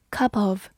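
"cup of" joined as "cu-pof"; linked sounds. Shown as a demonstration. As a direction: carry the p of "cup" into "of". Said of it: "也有个连读". (cup of 连读成 cu-pof)

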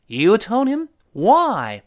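loud, high, drawn-out accusation; shocked question, then a big falling WHY; acted indignant friend; agitated disbelief. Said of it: "第一个人急了".

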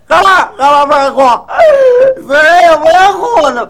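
loud, high and fast; hammed-up outraged mourner; indignant loud protest. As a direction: snap back at whoever stops you.

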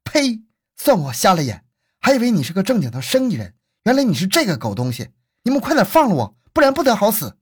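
high-pitched furious tirade; outraged victim's acted scolding; cursing. A narrator's reading. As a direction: curse your captors, voice pitched high. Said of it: "任艳梅骂道".

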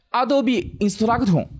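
Adobe Instructor said with katakana-style syllables, slowly; Japanese-accented English, each syllable spelled out. Real, not acted. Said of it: "你这个英文真的是日本口音".

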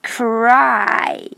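"cry" drawn out with a long glide; word demo. Shown as a demonstration. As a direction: stretch the vowel of "cry". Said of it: "这句话的最后一个单词".

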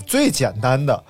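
usual speaking voice

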